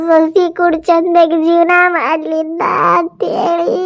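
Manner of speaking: mother's drawn-out wailing complaint; tearful lament. Acted. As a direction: lament with long, dragged phrase endings. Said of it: "ನೀನ್ ಎದಕ್ ಅಳಾಕತ್ತಿ?".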